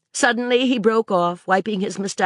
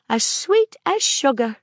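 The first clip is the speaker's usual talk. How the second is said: put-on a higher girl's exclamation; Maisie crying out; 7 semitones higher than usual. A narrator's reading. Girl answering Sir Claude, a mild eager cry. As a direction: sing it out eagerly. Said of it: "cried Maisie".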